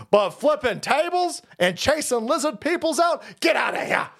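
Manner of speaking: shouted in delight; excited shout. Real, not acted. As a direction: roar it out.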